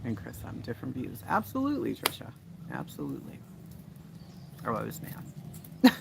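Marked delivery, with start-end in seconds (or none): 1.3-2.3 "Absolutely" in a high, lilting voice; high-pitched agreement. Real, not acted. Repeats agreement, high then low. 2.7-3.4 "Absolutely" dropped deep and soft; low-pitched agreement. Real, not acted. Repeats agreement, high then low.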